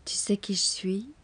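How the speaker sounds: a teasing whisper. Acted. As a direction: lean in close and whisper the question. Question chuchotée avant la litanie. (question chuchotée, taquine)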